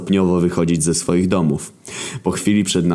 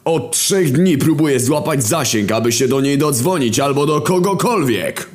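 high, half-sung grumbling voice of Wojna; a high sing-song rant from a weary warrior; Wojna's voice; 9 semitones higher than usual. Acted. Wojna speaks on. (wysoki, śpiewny głos Wojny)

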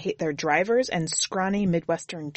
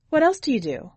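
much higher woman's voice, a little louder; chatty driver breaking the ice, pitched up; Susie; 8 semitones higher, 4 dB louder than usual. A narrator's reading. Driver asks hitchhiker his name, much higher voice. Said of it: "Susie questions Jimmy".

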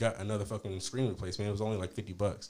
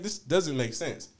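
retold exasperation, drawn out slowly and higher; getting heated; 4 semitones higher, much slower than usual. Customer retelling how he got hot with the store owner, heated. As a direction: stretch each word in rising irritation. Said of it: "now I'm getting hot".

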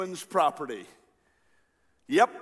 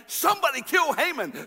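higher-pitched, mock royal outburst; acted rage, pitched up; enraged king; 8 semitones higher than usual. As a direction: give the order as an enraged king. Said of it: "the king is enraged".

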